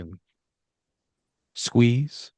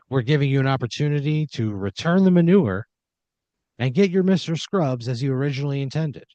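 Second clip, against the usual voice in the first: game show host; 4 semitones higher than usual. Acted. Host explains the offer.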